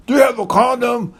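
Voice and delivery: a hint of a desperate friend calling out; imitating the friend. Friend bangs on the door asking for a condom, high urgent plea.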